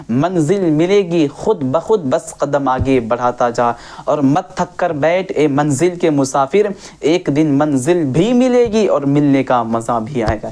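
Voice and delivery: lightly measured couplet recital; verse recitation. Acted. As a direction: recite the verse in deliberate phrases. (शेर सुनाने का हल्का ठहरा अंदाज़)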